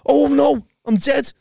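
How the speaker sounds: high, slow hammed-up dread; mock panic. Describing a bad trip to mates, high mock dread. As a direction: moan it like doom is certain. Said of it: "and I was like".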